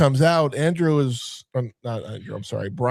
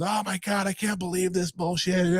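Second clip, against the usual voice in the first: mock emotional Claire; 5 semitones higher, 5 dB quieter than usual. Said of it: "Claire is just a ball of emotions".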